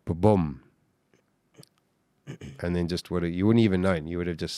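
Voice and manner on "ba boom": low, dull heartbeat thump; imitated slow heartbeat. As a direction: voice a single low heart thud. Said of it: "your heart would have been going".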